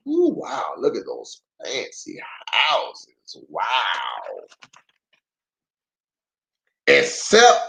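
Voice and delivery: put-on gentle read-aloud for little kids; unhurried picture-book narration; story narration. A narrator's reading.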